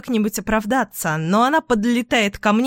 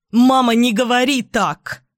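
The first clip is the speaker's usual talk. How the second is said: louder, higher desperate shout; 4 semitones higher, 4 dB louder than usual. Acted. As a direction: cry out to stop her mother. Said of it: "кричу я".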